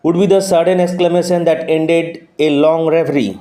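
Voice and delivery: slow, measured reading of the English passage; slow text reading. Acted. Teacher reading the English text to students, slow and measured. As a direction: read each word out deliberately for the class.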